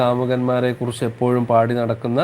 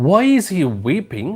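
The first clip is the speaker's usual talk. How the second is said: lizard asking; 7 semitones higher, 3 dB louder, much slower than usual. Acted. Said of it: "asked a little green lizard".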